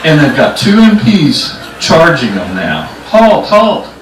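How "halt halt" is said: high-pitched order to stop; guard's shout. Retold or imitated. Two MPs charging after intruders, high commanding shout. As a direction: call out after fleeing men.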